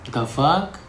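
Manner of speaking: sudden high squeal of disbelief; high, loud and startled; shocked. Retold or imitated. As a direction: shriek it, stunned by the question. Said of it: "I just sit and I'm like".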